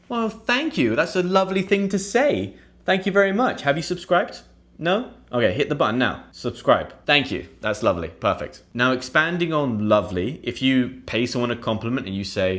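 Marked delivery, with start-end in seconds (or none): 0.1-8.6 high, gushing thank-you; flattered and bubbly; delighted thanks. Pretend. Acting pleased reply to compliment.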